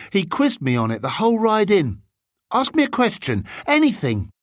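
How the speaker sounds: put-on high-pitched, keen young student; earnest bigger boy. Bigger boy shows off his studying.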